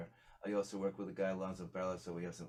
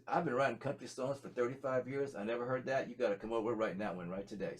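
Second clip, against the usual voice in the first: put-on country boy; 3 semitones higher, 3 dB louder than usual. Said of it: "he's a country boy from South".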